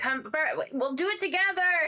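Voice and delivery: yelling. A player's character calls to a companion who went downstairs, yelling. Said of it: "they're yelling, like".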